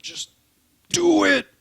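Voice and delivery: loud, high yell; shouting. Real, not acted. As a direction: yell it at him to hurry. Urging friend to open pack.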